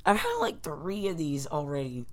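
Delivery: chewing while talking; mouth full. Real, not acted. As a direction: talk through a mouthful. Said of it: "Stop eating".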